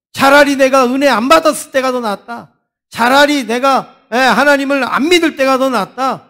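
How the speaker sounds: preacher voicing a fed-up believer; acted frustration. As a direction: protest as someone who has had enough. Voices believers who give up.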